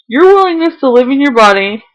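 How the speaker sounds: reading through real tears; words pushed out while crying. Real, not acted. Reading his partner's love letter to camera, crying for real. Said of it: "sorry, I'm crying".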